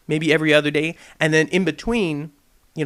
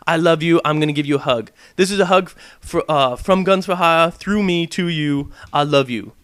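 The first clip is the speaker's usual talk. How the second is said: mock loving reply. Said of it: "respond with something crazy".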